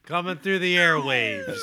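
slow, loud announcer; radio DJ voice. Pretend. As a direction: play the big radio host. Radio DJ intro bit.

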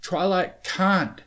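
high, slow, puffed-out protest; loud, breathless objection; winded. A narrator's reading. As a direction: force it out between breaths. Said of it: "regain his breath".

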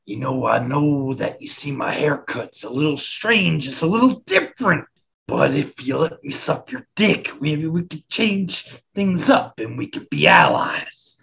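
a put-on voice pleading with Hulk, slowing at the end; hammed-up wrestler sucking up to Hulk; mock wrestler promo. Wrestler pitching Hulk an alliance, in a hammed-up put-on voice. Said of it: "He's gonna say".

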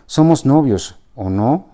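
yelling. Acted. Aurelia confronting Ricardo in the gardens, yelling. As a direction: make the whole campus hear. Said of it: "vociferó Aurelia".

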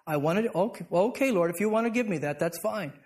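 grudging acceptance. Retold or imitated. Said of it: "You hear the difference?".

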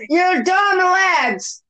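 mock Irish scolding.

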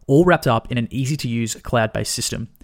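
loud, punchy sponsor read. Acted. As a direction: sell it like a radio ad. Reads sponsor ad.

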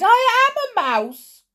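high, loud, slow dismay; horrified cry. A narrator's reading. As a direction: realise it in horror. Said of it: "he cried".

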